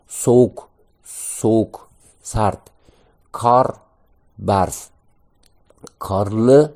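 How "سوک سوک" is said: سوک repeated with the final k nearly silent; soft ending k. Shown as a demonstration. Teacher repeating سوک for students, the k barely audible. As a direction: let the k in سوک fade to a whisper.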